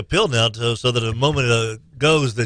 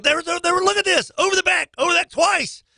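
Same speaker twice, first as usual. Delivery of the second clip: exasperated. Retold or imitated. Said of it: "I'm like".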